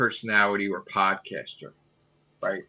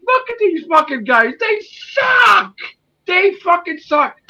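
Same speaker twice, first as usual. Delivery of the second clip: high, loud, jeering yell; mocking shout; 6 dB louder than usual. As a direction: yell the taunt at them. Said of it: "And he's like".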